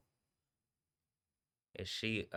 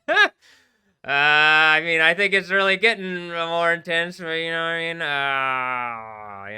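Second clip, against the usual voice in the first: laughing outburst; 9 semitones higher, 15 dB louder, slower than usual. Real, not acted. Laughing loud outburst after reaction.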